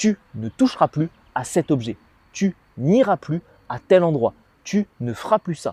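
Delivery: plain, direct, clear-cut, straight-to-the-point tone. Speaker demonstrates speaking with clear, precise words, direct voice. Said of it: "utiliser une voix directe".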